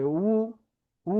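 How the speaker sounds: উ as wu through rounded lips. Shown as a demonstration. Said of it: "ঠোঁট গোল করে এরম বলতে হবে".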